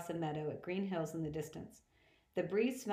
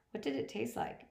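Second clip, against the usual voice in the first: wistful; 8 semitones higher than usual. A narrator's reading. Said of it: "He sounded so wistful".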